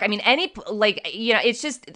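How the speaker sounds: halting false starts, searching for words; stumbling, unfinished phrases; stuttering. Real, not acted. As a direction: trip over the start of the sentence, restart. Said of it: "I'm stuttering because it was".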